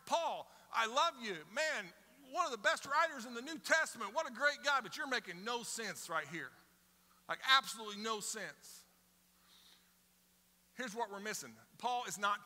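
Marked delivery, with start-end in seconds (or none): 0.1-8.8 exasperated admiration. Retold or imitated. Reader addressing Paul, affectionately exasperated. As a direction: tell Paul he's great but makes no sense. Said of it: "It's like".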